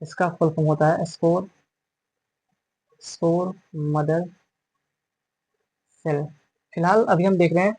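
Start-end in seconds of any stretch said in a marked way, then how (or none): 1.0-6.2 slow dictation. Shown as a demonstration. Teacher writes full form.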